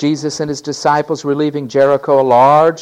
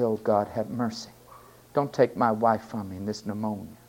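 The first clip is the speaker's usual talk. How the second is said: humble prayer; 4 dB quieter than usual. Acted. Preacher voices his own prayer.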